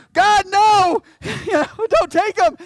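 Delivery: very loud, high mock wail; hammed-up panicked plea shouted to God; Art. Pastor imagined at a deathbed pleading with God, mock-frantic shout. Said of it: "Art would be like".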